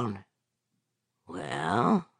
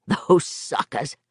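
chuckling; slower than usual. Acted. Laughs at the lost game.

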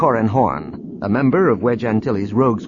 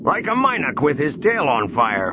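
wry; 5 semitones higher than usual. A narrator's reading. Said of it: "Booster said wryly".

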